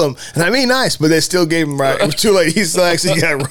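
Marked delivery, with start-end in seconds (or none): 0.4-0.9 flat correction. Retold or imitated. Retelling the same line again.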